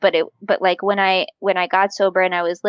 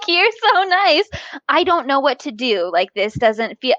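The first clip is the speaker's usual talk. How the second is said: inner voice; 4 semitones higher than usual. Retold or imitated. Inner voice, overwhelmed by kindness.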